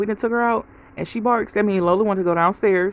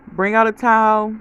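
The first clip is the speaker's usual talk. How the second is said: louder retold call to mom; 3 semitones higher, 5 dB louder than usual. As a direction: call ahead for help, a bit raised. Calling ahead to her mom.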